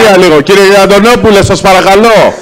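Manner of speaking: real exasperated plea for order; calling to order. Real, not acted. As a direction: call out firmly over the room. Chair calls a councillor to order.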